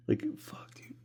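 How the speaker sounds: annoyed whisper under breath; whispered annoyance. Real, not acted. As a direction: hiss it out, fed up. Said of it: "That's how annoyed I am".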